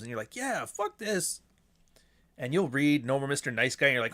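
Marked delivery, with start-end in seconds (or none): 0.4-1.4 high, slow, drawn-out defiance; stretched-out, high-pitched mock indignation. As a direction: imitate a fired-up new convert. Acting out the fired-up reader.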